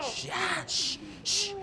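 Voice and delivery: soft, hushing shushes; callar con siseos. Acted. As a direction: quietly shush someone who is begging. Patrón acalla al que suplica. (siseo suave para acallar)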